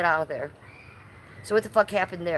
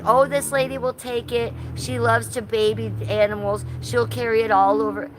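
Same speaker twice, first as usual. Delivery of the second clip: higher, louder mock gushing; playing for the camera; 5 semitones higher, 4 dB louder than usual. Streamer mimics Daisy answering the worried interviewer, showy and higher. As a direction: put on a show as the eager animal rescuer. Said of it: "playing for the camera".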